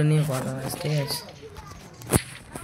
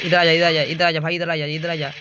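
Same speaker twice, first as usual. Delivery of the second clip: calling out loud; 5 dB louder than usual. Real, not acted. Calling teammate over in game.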